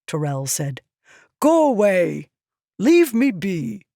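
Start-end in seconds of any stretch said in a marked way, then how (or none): 1.4-3.9 irritated dismissal. A narrator's reading. Tyrell sends the slave girl away, irritated. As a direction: wave her off with annoyance.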